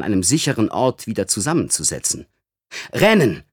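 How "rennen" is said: higher, louder call to run; urgent shout. Acted. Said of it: "rief Alaska".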